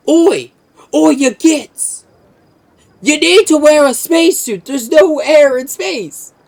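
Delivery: loud, high brutish orc yell; shouting orc. Retold or imitated. Orc scolding orcs without spacesuits, loud brutish orc shout. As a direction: bellow it like a dim orc. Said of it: "and they're like".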